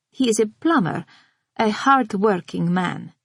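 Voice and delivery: enigmatic. A narrator's reading. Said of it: "she says enigmatically".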